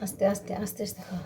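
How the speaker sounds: soft, low soothing murmur; gentle coaxing. Real, not acted. Feeding sick Poko medicine, gently coaxing. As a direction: coax softly, keeping the voice low.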